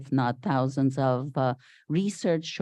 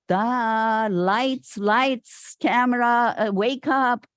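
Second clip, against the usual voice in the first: higher and louder, teasing duh; mock wake-up call; 7 semitones higher, 4 dB louder, slower than usual. Her wake-up moment, retold as a louder, higher mock jolt. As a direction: jolt someone awake with mock impatience.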